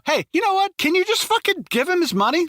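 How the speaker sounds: high, pleading mock teammate voice; whiny teammate begging him to give up the money; exasperated teammate. Teammate voiced in retold scene.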